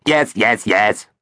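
brushing off with impatience; impatient. Acted. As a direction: hurry him along. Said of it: "said Superloo impatiently".

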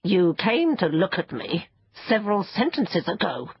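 mildly cross creature; huffy, understated reproach. Acted. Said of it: "it said crossly".

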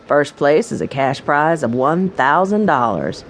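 a hint of a folksy proprietor welcoming guests; welcoming mine owner. Mine owner greeting new guests, lightly voiced and welcoming.

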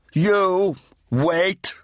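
high, loud barked command from down the corridor; stern shout. Acted. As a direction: call the boy to stop sharply. Redeemer calls boy in corridor.

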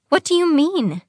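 high, startled question; shocked. A narrator's reading. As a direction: react in alarmed disbelief. Evelyn leaps up at the news.

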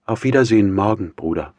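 mildly pitying farewell; understated sympathy, falling away; compassionate. A narrator's reading. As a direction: part gently from your brother. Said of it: "sagte Dunja mitleidig".

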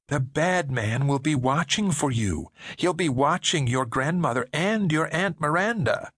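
a hint of an older woman's ominous warning; lightly voiced woman. Woman warning David the bad man watches, lightly ominous.

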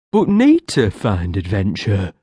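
sadly. Acted. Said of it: "he said sadly".

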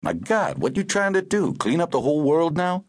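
exclaim, appalled, voice leaping high; horrified. A narrator's reading. Chauffeur reacting to what she has done, horrified. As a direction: pitch shooting up in horrified disbelief. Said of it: "and he was horrified".

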